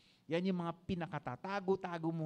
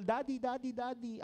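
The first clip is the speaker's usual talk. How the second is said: put-on higher, eager calls of young churchgoers; youth calling daddy; 7 semitones higher than usual. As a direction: mimic youths fawning over him. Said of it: "pinapalibutan ng mga young people".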